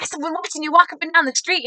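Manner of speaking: imitated gushing, high and loud; excited supporter. Supporter greeting the candidate from his truck, excited.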